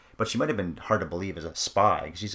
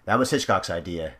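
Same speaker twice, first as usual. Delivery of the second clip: emphatic retold claim; 6 dB louder than usual. Podcaster quoting the screenwriter to a co-host, mock-indignant insistence. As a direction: build to a loud, punched curse.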